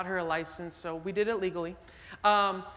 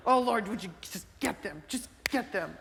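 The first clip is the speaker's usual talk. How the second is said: mock vengeful prayer. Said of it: "I'm like".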